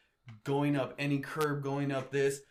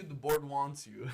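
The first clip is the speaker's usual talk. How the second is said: slow ominous trailer voice; horror trailer voice; slower than usual. Pretend. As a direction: slowly warn it like a movie trailer. Slow spooky repeat.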